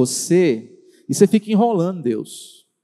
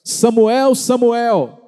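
God calling; 4 semitones higher, much slower than usual. Acted. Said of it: "Quando Deus chamou por várias vezes".

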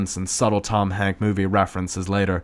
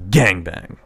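dark sultry voice; 6 dB louder than usual. Acted. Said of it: "says a dark, sultry voice".

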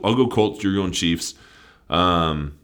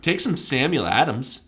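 higher, louder hype call to the crowd; rallying fans; 8 semitones higher, 4 dB louder than usual. Acted. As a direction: rev up the fans. Calling on Boston fans.

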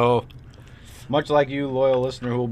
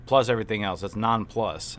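drawn-out, slow matter-of-fact explanation; slow explaining. Retold or imitated. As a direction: spell it out slowly like a patient clerk. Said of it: "He said".

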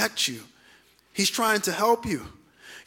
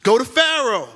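lightly voiced God, raised in pitch; God commanding; 4 semitones higher, 3 dB louder than usual. God sending Moses back to Egypt, commandingly. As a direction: call out firm orders as God. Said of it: "God saying".

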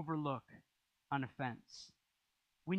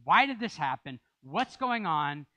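loud, slow demanding question; forceful venting prayer; 6 dB louder than usual. Retold or imitated. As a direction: demand an answer from God. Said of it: "my prayers are really forceful".

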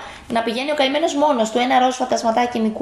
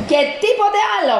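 angry shout; 10 semitones higher, faster than usual. Acted. Angry principal scolds Gilbert with a fast shout. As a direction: bark the order at the little ghost.

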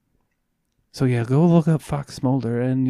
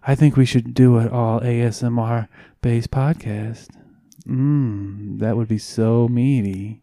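mock ASMR voice; 5 dB louder, slower than usual. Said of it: "I'm gonna talk like this the whole time".

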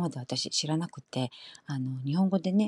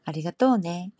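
Kansai accent; slower than usual. Shown as a demonstration. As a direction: say ありがとう lightly, Kansai style. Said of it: "이런 식으로".

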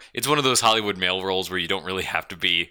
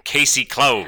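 noir detective; 3 semitones higher than usual. Acted. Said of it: "cut off the voice though".

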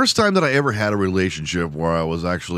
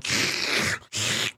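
drool slurp; 7 dB quieter than usual. Retold or imitated. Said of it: "trying to keep it in".

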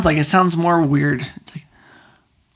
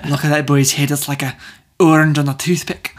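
put-on Scottish accent. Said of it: "So I married an axe murderer".

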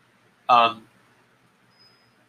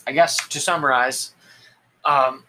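yawning; 3 semitones higher, 4 dB louder than usual. Real, not acted. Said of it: "but I'm yawning".

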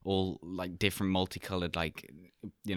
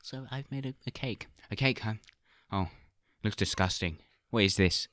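Gordon Ramsay impression; 4 semitones higher than usual. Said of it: "It's like Gordon Ramsay".

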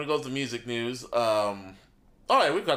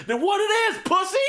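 much higher, louder tough-guy rapper voice; impression of a rapper; 4 dB louder than usual. Host imitating a rapper confronting Two-Bit, tough and loud. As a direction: act out a rapper snapping at a guy. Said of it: "so Diddy was like".

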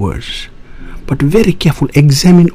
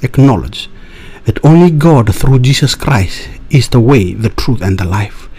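doomsday street preacher. Acted.

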